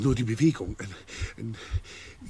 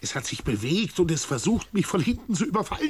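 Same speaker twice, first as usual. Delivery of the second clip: rising urgent protest, faster at the end; agitated insisting; 2 semitones lower than usual. Acted. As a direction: insist desperately, voice climbing. Insists against halluzination claim.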